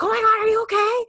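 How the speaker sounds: mock alarmed friend; alarmed concern. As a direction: sound shocked and worried.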